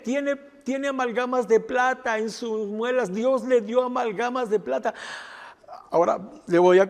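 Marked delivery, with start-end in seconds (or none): 0.0-4.9 higher-pitched, contained excitement; retold amazed mother. Mother tells pastor about the fillings, retold amazement. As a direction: relay astonishing news as the mother would.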